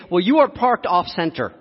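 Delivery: mock angry retort. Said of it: "he started to scream at me".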